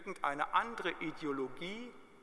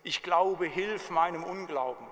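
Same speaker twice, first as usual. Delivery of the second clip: father crying out; 3 dB louder than usual. Retold or imitated. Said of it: "sogleich schrie der Vater des Kindes".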